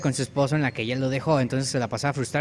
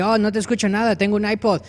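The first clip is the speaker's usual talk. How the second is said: high, raised can't-hear-you voice; playful higher hipster-pig voice; oblivious hipster piglet; 6 semitones higher, 4 dB louder than usual. Acted. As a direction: talk over your headphones. Hipster piglet talking over his iPod.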